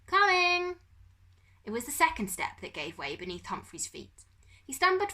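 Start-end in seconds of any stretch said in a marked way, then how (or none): 0.1-0.8 high, loud call down the stairs; bellowing. A narrator's reading. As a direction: bellow it downstairs. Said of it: "he bellowed down the stairs".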